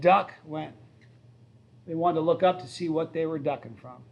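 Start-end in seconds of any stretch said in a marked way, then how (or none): 0.0-0.3 sudden louder shout of duck with a rise; mock warning shout. Psych-class student startling a passerby, calling out duck. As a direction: bark a quick warning at a stranger. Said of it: "half the guys I said".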